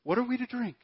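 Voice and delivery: first grumbling ask of the thirsty crowd; grumbling complaint. Retold or imitated. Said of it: "So the people grumbled against Moses".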